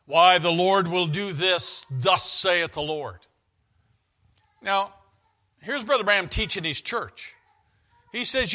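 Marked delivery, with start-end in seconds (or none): 0.1-3.3 slow, intoned pronouncement; mock prophecy. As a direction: intone it like a self-made prophet. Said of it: "he goes by impression".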